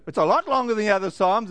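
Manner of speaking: quick, firmer reader's reaction; growing surprise. Acted. Bible-plan reader turning a page, mildly acted surprise. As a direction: step up the surprise a notch, fast. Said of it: "And you flip a page".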